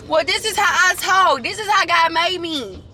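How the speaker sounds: slow, drawn-out explanation; exaggerated drawl. Real, not acted. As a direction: stretch the words out unhurriedly. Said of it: "Like that".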